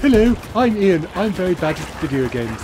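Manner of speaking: a light, barely changed teasing voice of a friend; lightly voiced friend impression; gentle impression of Ian. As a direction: introduce yourself as the friend, mildly mocking. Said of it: "That's my impression of Ian".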